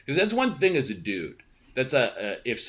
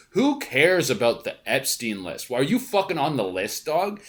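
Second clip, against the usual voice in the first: Stephen A Smith; 3 semitones higher than usual. Retold or imitated. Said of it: "Stephen A Smith had that whole thing".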